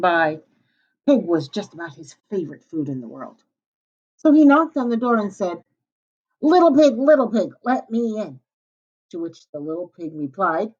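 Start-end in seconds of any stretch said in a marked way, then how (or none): 6.4-8.4 calling wolf. Acted. The wolf calls at the door.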